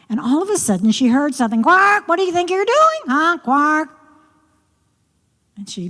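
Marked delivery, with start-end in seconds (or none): 1.6-3.9 high, fast croaky frog voice with quark sounds; a cheeky frog scolding the girl; croaking frog. Acted. Frog voice introduced.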